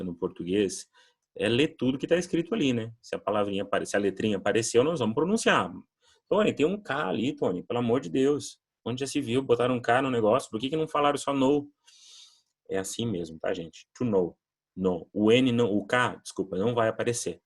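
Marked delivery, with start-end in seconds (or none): 6.3-11.7 high, whiny student protest; a student grumbling at the teacher about the silent K; complaining student. Retold or imitated. Students protest to teacher Tony, mock whiny and high. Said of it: "meus alunos sempre tinham dificuldade".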